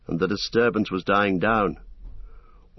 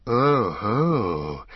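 long, drawn-out knowing goblin "oh-ho"; soft goblin hiss. A narrator's reading. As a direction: let it slide out slyly, slowly. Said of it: "hissed the goblin softly".

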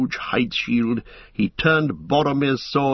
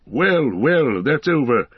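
weary wizard; 3 semitones higher than usual. A narrator's reading. Exhausted wizard after battle.

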